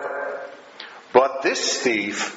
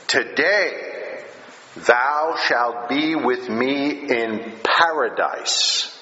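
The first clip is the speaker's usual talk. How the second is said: slow, measured, solemn vow; solemn promise; slower than usual. Retold or imitated. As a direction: quote it slowly like a sacred promise. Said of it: "So he gives a solemn promise".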